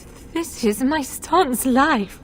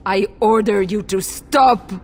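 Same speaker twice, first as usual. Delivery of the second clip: stern order; 4 semitones lower, 4 dB louder than usual. Acted. I order you to stop.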